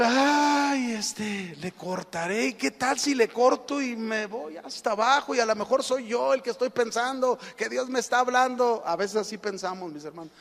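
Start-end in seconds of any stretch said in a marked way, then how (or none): 0.0-8.8 long wailed "ay", then wavering doubt; acted reluctant second thoughts; hesitant climber. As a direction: dither aloud as the doubting climber. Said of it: "Y él".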